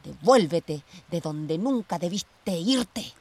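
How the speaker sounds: slow, deliberate order; cold command. Acted. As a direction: spell out each word coldly. Ordering her sister away.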